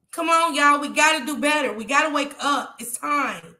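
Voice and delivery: pleading with raw feeling; worked up and pleading from the heart; emotional. Real, not acted. Streamer pleads with viewers over daily killings, emotional. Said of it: "Yes, I'm emotional".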